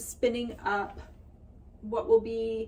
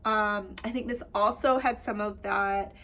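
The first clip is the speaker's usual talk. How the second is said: slightly nasal, blocked-nose sound. Real, not acted. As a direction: speak a little through the nose. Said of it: "listening to my nasally voice".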